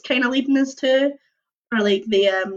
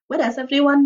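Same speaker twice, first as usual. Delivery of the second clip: a mild, higher mock shout; 4 semitones higher than usual. You calling for the vanished friends, a light mock shout. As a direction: call out to the empty basement. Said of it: "you shout".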